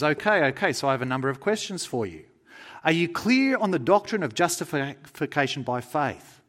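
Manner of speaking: lightly voiced brisk official; supervising angel. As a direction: take charge and start the questioning. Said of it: "supervising angel comes over and says".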